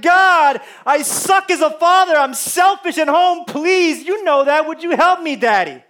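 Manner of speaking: earnest but understated plea; honest desperate prayer. Retold or imitated. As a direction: confess it like a desperate child. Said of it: "real things like".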